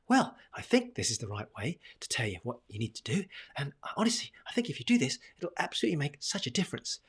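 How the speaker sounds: sing-song upward lilt full of doubt; rising uncertain tone. Shown as a demonstration. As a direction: let the pitch whoop up like you doubt it. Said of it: "That whoop, whoop, whoop in my tonality".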